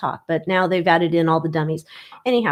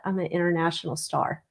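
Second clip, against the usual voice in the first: quiet aside; 2 semitones lower, 6 dB quieter than usual. Real, not acted. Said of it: "So I'm gonna say that".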